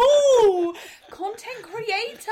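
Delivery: content creator stretched high and slow; stress on content creator. Real, not acted. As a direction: say content creator slowly, exasperated. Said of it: "How many times do I have to say this".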